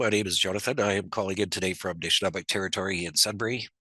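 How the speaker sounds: talking with a blocked nose; congested, heavy head cold; stuffed-up nose. Real, not acted. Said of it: "I'm pretty stuffed up".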